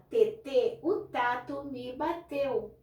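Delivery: lightly voiced toddler; small child voice. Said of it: "chega pra mim e fala". (criança pequena, fala lenta e um pouco aguda)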